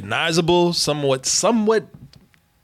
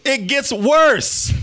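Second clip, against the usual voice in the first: slow doom refrain; 5 semitones higher, much slower than usual. Pretend.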